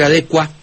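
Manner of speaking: "adecua" as a-DE-cua; stress on DE. Shown as a demonstration. Host tells the maestro a preference, "adecua" stressed on DE. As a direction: hit de and keep cua as one syllable in "adecua". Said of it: "yo prefiero".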